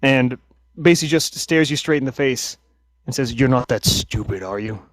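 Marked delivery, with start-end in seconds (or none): 3.3-4.8 menacing captain. Acted. Half-elf menacing captive.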